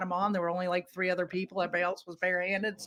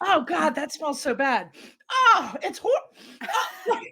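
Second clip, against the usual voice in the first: high, grossed-out kid imitation, laughing through it; eight-year-old kid; 7 semitones higher, 5 dB louder, slower than usual. Husband over bad milk, like a disgusted eight-year-old. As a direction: whine in mock disgust like a little kid, climbing higher. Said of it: "like the typical eight-year-old kid".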